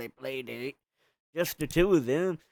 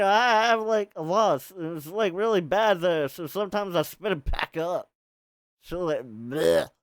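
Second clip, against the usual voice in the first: Rachel confessing; 3 semitones higher, 4 dB louder than usual. Acted. Rachel confessing raw egg habit.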